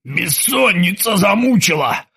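slow venomous hiss. A narrator's reading. Krueger hisses back at the terminator. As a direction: spit it through a crooked mouth. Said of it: "прошипел Крюгер".

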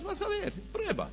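high, soft mock-Satan voice; put-on, high-pitched tempter; imitating Satan's dare. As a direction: squeak out a taunting challenge to God. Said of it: "Él realmente le dijo a Dios".

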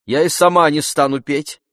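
живо, горячо; lively. Acted. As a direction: cut him off with spirited protest. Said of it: "с живостью сказала она".

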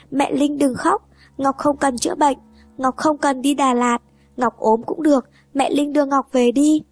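put-on a little girl, tearful, trying to comfort her mom; small child pleading.

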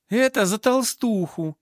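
slow, loud, high battle cry; acted vengeful cry. A narrator's reading. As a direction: cry it out as you land a blow. Heroine strikes thug with cue. (мстительный крик, громко и врастяжку)

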